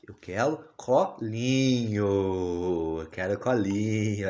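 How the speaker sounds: a lightly voiced baby asking for a cuddle, slow; dad speaking for the baby, slow and pleading; a hint of a baby asking to be held. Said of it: "Fala assim".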